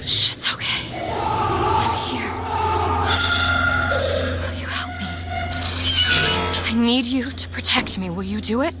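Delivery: soothing a scared pet. Acted. Calming Songbird creature.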